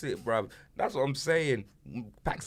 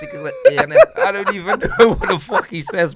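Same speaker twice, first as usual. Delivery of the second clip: much higher and louder, laughing through the mangled name; laughing mockery; 12 dB louder than usual. Real, not acted. Friend mocking a rapper's name to his mate, laughing high.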